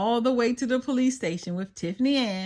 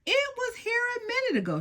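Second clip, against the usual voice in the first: Wanda Lynn voice; 13 semitones higher, 4 dB quieter, much faster than usual. Acted.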